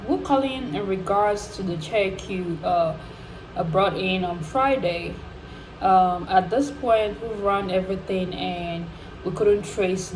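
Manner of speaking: matter-of-fact phone-call voice, lightly imitated; a hint of an official breaking bad news; retold bank caller.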